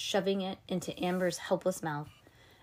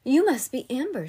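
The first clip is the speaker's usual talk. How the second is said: grand lady voice; 6 semitones higher, 8 dB louder than usual. Acted. Miss Mavius greets.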